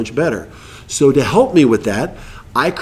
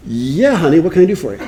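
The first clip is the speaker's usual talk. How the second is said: kind reply. Retold or imitated. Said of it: "my new arrow is".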